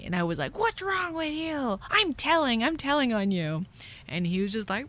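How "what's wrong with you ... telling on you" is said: put-on high-pitched indignant child's protest; acted angry outburst. Punched kid threatens to tell on the boy, high angry protest. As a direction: act out a kid threatening to tattle. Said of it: "just red hot anger in me".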